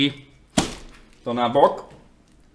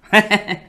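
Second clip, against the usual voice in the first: głośny, wysoki śmiech; 9 semitones higher, 6 dB louder than usual. Real, not acted. Laughs after coffee confession.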